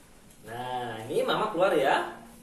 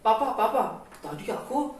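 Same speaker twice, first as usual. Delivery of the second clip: put-on much higher little-boy voice; high child voice; 6 semitones higher than usual. Edo telling papa about the monster sound, high childlike voice. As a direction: tell papa about the noise like a small child.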